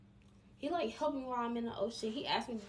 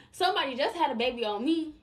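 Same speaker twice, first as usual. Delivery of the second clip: louder, pressing the point home; emphatic repeat; 3 semitones higher, 5 dB louder than usual. Real, not acted. Telling her viewers about her own heartbreak, louder and emphatic. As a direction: say it again with more force. Repeats aside with more force.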